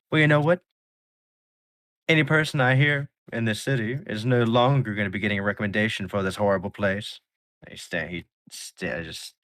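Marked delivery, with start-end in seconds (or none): 0.1-7.2 high, loud, fast indignant rant; huffy tirade. Acted. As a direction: spit it out while stomping away. Offended singer storms out.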